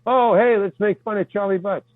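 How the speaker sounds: lightly acted ringleader of a joke; retold teasing. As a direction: imitate someone rallying the others to tease.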